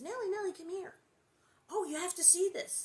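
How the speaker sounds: lightly voiced sneaky girl luring; mock sweet coaxing; sly lure. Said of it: "She actually says".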